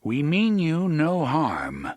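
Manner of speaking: slow formal call in the high speech. Acted. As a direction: call out calmly across the square. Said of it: "the gunslinger called".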